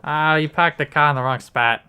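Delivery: a hint of a Boston local complaining; Boston accent. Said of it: "that's my Boston impression for you".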